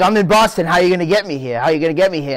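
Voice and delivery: high loud excited challenge; excited disbelief. Retold or imitated. Retold excited reply.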